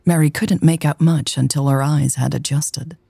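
intimate, measured romance narration; story narration. A narrator's reading.

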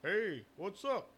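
high, slow put-on country voice; Jerry Moss's weird voice. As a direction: drag it out high like an odd farmer. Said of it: "That's how he talks".

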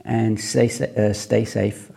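slurring round loose teeth; words tripping over loose dentures. Real, not acted. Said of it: "I can't talk all of a sudden".

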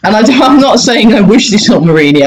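amused, high-pitched backpedalling; laughing disclaimer. Real, not acted. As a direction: protest while laughing at your own joke. Laughing disclaimer after dark joke.

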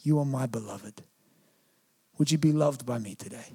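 low, soft, gentle appeal; God's tender assurance. Acted. Preacher voicing God to the congregation, softly reassuring. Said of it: "God looks at you and he says".

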